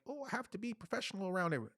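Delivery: mock a stiff executive, nose in the air; uppity professional. Mocking uptight execs who must stay professional, prim. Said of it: "Not the uppity type".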